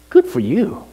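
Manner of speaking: high, resentful retort; retold sour congratulations; offended. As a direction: toss it off high, stung. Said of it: "I was offended".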